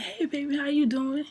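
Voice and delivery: put-on bright, high-pitched hey baby; sweet high greeting. To her crush, a sweet high greeting. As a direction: greet him all sugary and high.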